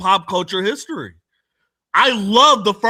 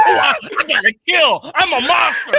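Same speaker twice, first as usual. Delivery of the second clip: mocking Sarah Connor voice; 6 semitones higher than usual.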